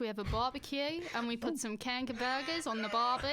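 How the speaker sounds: put-on light Australian accent. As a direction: have a go at Aussie. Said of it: "Go on, try your Australian".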